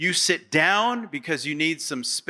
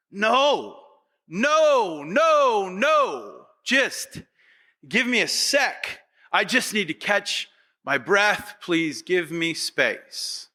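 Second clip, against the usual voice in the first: overwhelmed refusal; 2 semitones higher, slower than usual. Pretend. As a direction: push the crowd away, begging for a moment. Imagined Jesus refusing the crowd.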